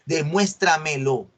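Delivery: slow, syllable-by-syllable DEMUÉSTRAMELO; exigencia recalcada. Acted. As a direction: stretch out "Demuéstramelo" slowly as a deliberate challenge. Profesora actúa exigiendo pruebas al estudiante. ("Demuéstramelo" exigido despacio, sílaba por sílaba)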